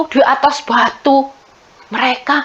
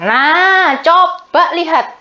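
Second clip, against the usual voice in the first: mocking; 4 semitones higher than usual. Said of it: "Elia mengejek".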